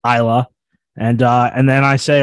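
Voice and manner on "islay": ISLA said as EYE-luh; short-ending pronunciation. Shown as a demonstration. Trying out the whisky region's name, Isla said EYE-luh. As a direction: say "Isla" with silent S and an unstressed "uh" ending. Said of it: "where I have that pronunciation from".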